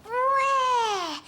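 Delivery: a happy, excited yeah; delighted cheer. Acted. Caillou thanks papa for the glove, delighted cheer. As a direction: cheer for the gift.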